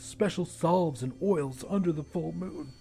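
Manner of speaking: a lightly voiced jittery young man; half-voiced scared friend asking in the dark; hint of a nervous young man; nervous Vern. Vern explains werewolf lore.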